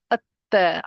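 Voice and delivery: "at-ta" with doubled T, no L; lam dropped. Shown as a demonstration. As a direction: join the A straight onto the T in at-ta. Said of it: "I don't say al".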